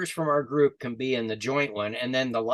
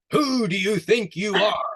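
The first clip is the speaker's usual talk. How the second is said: echo's reply; 8 semitones higher, 6 dB louder than usual. Acted. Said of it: "the echo came back".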